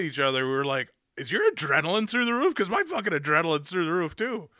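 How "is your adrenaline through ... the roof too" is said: hyped-up excitement. Retold or imitated. Friends hyped after movie.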